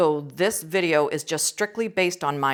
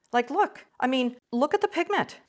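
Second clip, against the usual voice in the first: pitched up, eager enthusiasm; genuinely excited; 6 semitones higher than usual. Real, not acted. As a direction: urge them to look, voice rising with real excitement. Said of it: "I get so excited".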